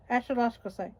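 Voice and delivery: ordinary delivery, nothing marked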